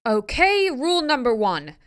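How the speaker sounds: put-on high, loud girl laying down rules; firm announcement. A narrator's reading. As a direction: announce it firmly, high-pitched. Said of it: "Rachel announced firmly".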